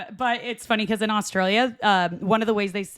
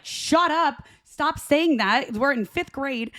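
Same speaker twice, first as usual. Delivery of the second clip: retold yell; 5 semitones higher, much slower than usual. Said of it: "I yelled at him".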